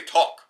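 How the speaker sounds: "talk" with a rounded aw vowel; New York "talk". Shown as a demonstration. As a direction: say "talk" as if it had a W in it. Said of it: "coffee with a W".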